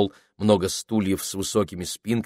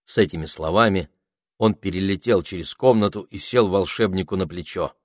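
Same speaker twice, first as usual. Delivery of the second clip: plain reading voice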